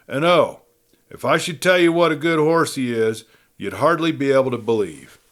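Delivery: put-on a girl presenting her horse proudly; Joan voiced. Joan presents her horse to the crowd, lightly voiced girl.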